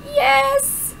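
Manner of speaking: high, loud, rushed words; excited outburst. Acted. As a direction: burst out with it.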